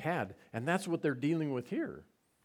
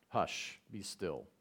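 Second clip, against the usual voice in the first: calm command; 6 semitones lower, 6 dB quieter, slower than usual. Retold or imitated. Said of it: "Perfectly calm".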